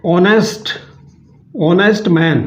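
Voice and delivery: ऑनेस्ट opening on the vowel, no h; silent h. Shown as a demonstration. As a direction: leave the h silent at the start of ऑनेस्ट. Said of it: "ऑनेस्ट में भी एस silent है".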